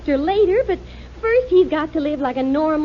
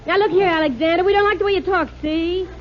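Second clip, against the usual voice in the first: hard-boiled wife; 3 semitones higher than usual. Acted. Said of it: "I'll be a hard-boiled wife".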